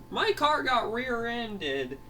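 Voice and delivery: slow, high-pitched cross whine; angry complaint. Acted. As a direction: draw it out high in mock anger. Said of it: "he comes home angry at Fangy".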